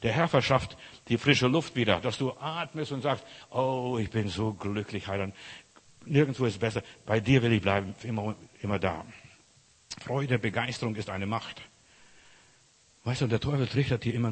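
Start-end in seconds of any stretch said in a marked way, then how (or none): 3.5-9.0 blissful contentment. Acted. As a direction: speak as if breathing out with relief to the Saviour. Acted blissful sigh to the Saviour.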